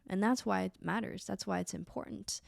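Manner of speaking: normal talking voice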